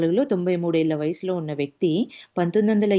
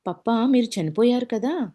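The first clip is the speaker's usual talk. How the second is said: startled surprise; 5 semitones higher than usual. Retold or imitated. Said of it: "అని నాతో మళ్ళీ".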